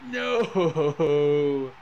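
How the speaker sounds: loud, sharp cry of defeat; anguished no. Real, not acted. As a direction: yell it as the last penalty goes in. Team loses the penalty shootout.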